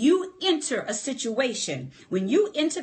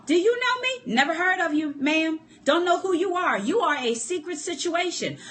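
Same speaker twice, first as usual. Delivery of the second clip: a hint of a dismissive relative, higher; lightly voiced dismissive in-law; mock family member; 4 semitones higher than usual. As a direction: brush her off like a stranger. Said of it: "Girlfriends, give me a call".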